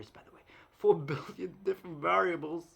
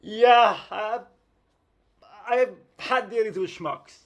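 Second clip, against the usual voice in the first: loud, slow declaration; loud emphatic yes; 3 semitones higher, 12 dB louder, slower than usual. Real, not acted. Telling viewers about schmucks, loud slow declaration. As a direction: declare it with relish.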